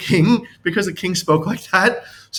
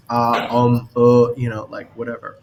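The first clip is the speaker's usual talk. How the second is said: mock stalling; 5 semitones lower than usual. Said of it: "instead of going".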